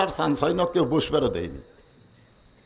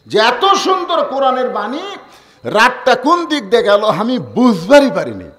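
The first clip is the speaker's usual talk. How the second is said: louder, higher preacher's repeat; ringing, raised-voice quotation; emphatic requote; 6 semitones higher, 7 dB louder than usual. Acted. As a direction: throw the quoted words out to the crowd.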